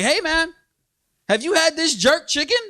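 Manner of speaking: white guy. Acted. White guy recommending jerk chicken to a local, high mock voice. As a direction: pitch it up as an eager white customer. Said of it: "a white guy come up to me like".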